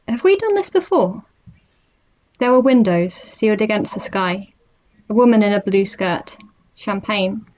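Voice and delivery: measured poetry recital with spaced pauses; poem reading. Acted. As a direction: read it as a poem, questions lifted, phrases left hanging. Reads own poem aloud.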